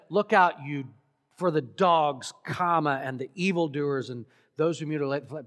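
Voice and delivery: one warning run together as a list, speeding up at the end; single run-on list. Shown as a demonstration. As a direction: rattle off "and the evildoers and those" quickly. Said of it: "because he could have said".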